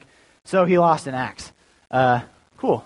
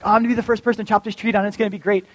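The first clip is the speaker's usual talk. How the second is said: lightly acted eagerness, higher and quick; eager woodcutter; 5 semitones higher, faster than usual. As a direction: play a mildly over-eager tree chopper. Imagined eager woodcutter before the accident.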